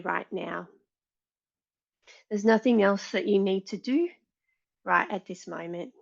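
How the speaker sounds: calm meditation lead with long pauses; guided meditation. Real, not acted. Yoga teacher settling the class before practice, guided meditation. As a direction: guide them gently inward, leaving space after each instruction.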